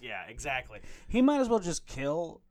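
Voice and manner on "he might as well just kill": angry outburst. Real, not acted. Furious rant about Batman killing.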